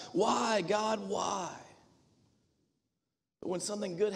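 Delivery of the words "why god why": anguished cry of why to God. Acted. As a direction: call it out like a desperate plea. Crying out to God in quote.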